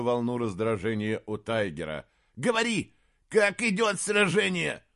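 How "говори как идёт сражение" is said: much higher, urgent question; anxious demand. Acted. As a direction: press him for news. Anxious demand for battle news. (тревожный вопрос)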